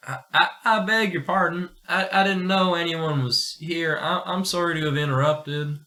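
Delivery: put-on nervous boy tripping over words; apologize, stuttering and flustered; a timid youngster caught out; flustered stammer.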